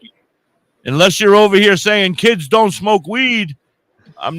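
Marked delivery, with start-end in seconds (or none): 0.9-3.6 louder teasing emphasis; emphatic teasing. Acted. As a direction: push the point, teasing. Teasing refusal.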